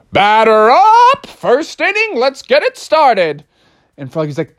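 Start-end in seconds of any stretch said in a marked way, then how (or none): 0.1-3.4 loud, slow, higher umpire call; umpire yelling. Acted. Umpire calling the game to start, loud slow yell. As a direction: call it across the field. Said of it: "the umpire was yelling".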